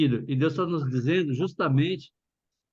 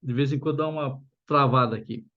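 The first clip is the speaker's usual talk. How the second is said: numb from the dentist. Real, not acted. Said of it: "tô com a boca ainda anestesiada".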